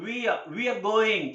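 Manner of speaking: "we are" run together as wee-uh; stylish contraction. Shown as a demonstration. Teacher drills the short form for learners, "we are" contracted. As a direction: soften away the R in "we are". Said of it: "we are को हम style से बोलते हैं".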